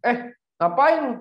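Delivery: high, slow menacing thug voice; menacing challenge. Retold or imitated. Asoy snarls at the man laughing by his car, mock menace. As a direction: drag out a threatening street challenge.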